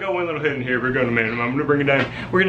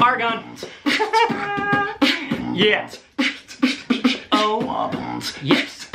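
helium voice; 5 semitones higher, much slower than usual. Real, not acted. After inhaling helium.

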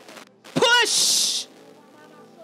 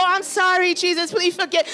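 offhand, throwaway apology to God; casual apology. Shown as a demonstration. Preacher shows congregation how not to repent, casual apology. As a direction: toss off the prayer without weight. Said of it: "Don't do this casual".

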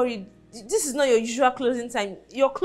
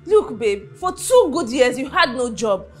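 hurt anger; 4 semitones higher, 4 dB louder than usual. Acted. Wife argues back.

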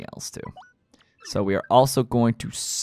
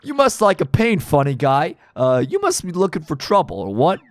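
eager goon asking his boss; a hint of a gangster goon; mob henchman; 7 semitones higher than usual. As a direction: play the dim tough-guy sidekick. Reads mob henchman dialogue.

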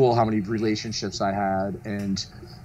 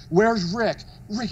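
mild mock yell, pitched up; raised, higher voice without full force; retold calling out; 8 semitones higher, slower than usual. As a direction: imitate someone calling for a missing friend. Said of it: "He just started screaming my name".

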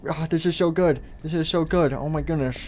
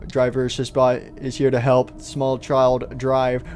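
robot announcer; 4 semitones lower, slower than usual. Acted.

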